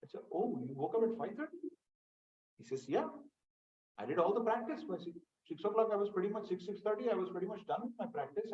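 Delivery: put-on a kid proudly reporting his practice; child answering father. Son telling daddy he already practiced, high and quick. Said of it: "You come back and say".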